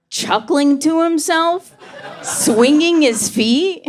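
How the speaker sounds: slow, high giggly voice; giddy high. Retold or imitated. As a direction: act out a gleeful dad. Phone dad mimed, slow high.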